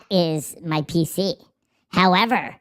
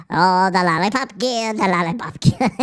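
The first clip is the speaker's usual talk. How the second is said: lightly put-on Irish munchkin voice; playful mock Irish sing-out; Irish little person; 4 dB louder than usual. Streamer showing viewers the voice, playful mock Irish little person. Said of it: "like an Irish little person".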